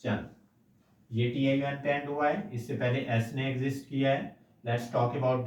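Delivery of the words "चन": a clipped "chun" for -stion; "chun" sound. Shown as a demonstration. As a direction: say चन as a short "chun" ending. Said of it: "then we can pronounce like".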